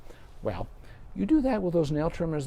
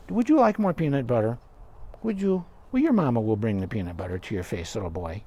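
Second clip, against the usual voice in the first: sweet talk to dog; 2 semitones lower than usual. Real, not acted. Vet coaxing dog on her lap.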